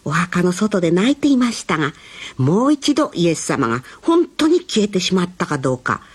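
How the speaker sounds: storyteller reading to little ones; gentle storytelling. A narrator's reading. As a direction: tell it like a bedtime story. Reading Bible story to children.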